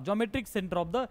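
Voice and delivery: each word spaced out for copying; slow dictation. Shown as a demonstration. Teacher dictating a definition to the class, slow and even. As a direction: read it out slowly so students can write it down.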